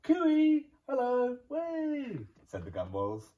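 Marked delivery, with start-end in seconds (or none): 0.0-2.3 high, loud cheery call; loud, high cooey call to a friend. Acted. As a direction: sing it out across a distance. Family calling from afar.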